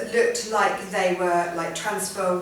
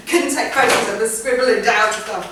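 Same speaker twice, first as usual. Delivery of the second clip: louder, breathless rush of a rushed tour; hurried excitement; 4 semitones higher, 9 dB louder than usual. Real, not acted. Artist recalling a rushed abbey tour, louder and excited. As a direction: tumble it out, still buzzing from the dash.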